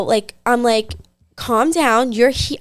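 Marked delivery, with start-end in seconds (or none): 1.4-2.6 measured voice, telling him to calm down; calm, controlled. Retold or imitated. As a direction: keep it level while retelling a plea. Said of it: "I'm literally talking like this".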